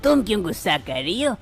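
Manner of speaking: the old man calming his jealous wife, a hint of gentleness; father-in-law voice.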